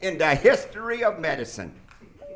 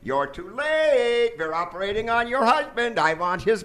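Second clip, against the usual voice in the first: gloating. Acted. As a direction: savor every word. Villain gloating at wife.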